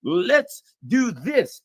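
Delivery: a hint of a reckless cheerleader; mocking eager hawks. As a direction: parody careless enthusiasm. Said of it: "These people are like".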